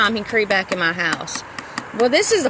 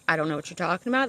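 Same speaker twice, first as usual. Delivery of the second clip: fast, softer mock clueless mumble; fast mumbled shrug; 3 semitones lower, 6 dB quieter, faster than usual. Mimicking the people she argued with, a quick careless mumble. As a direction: toss it off like a shrug. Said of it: "they would say".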